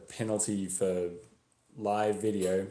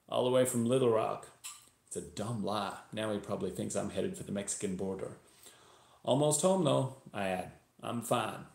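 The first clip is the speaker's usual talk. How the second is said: put-on story read in a Texan accent; attempted Texas accent. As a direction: narrate as a Texan, imitated accent. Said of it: "I'm going to attempt a Texas accent".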